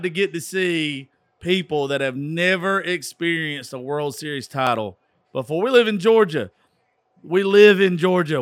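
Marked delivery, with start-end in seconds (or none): 5.6-8.4 loud yelling. Real, not acted. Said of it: "I might have just screamed".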